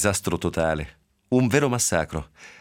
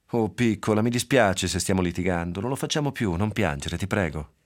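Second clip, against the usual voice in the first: tender soothing. Acted. Mother comforts crying daughter.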